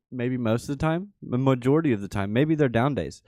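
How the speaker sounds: put-on upbeat Valley girl lilt; chatty valley girl, like totally. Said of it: "Sounded like a valley girl".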